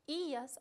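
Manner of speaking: "ias" with the i held and stressed. Shown as a demonstration. Teacher showing the accented verb ending, stress on the i of "ias". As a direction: lean on the "i" in "ias", keeping it apart from the a. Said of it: "acento sobre i".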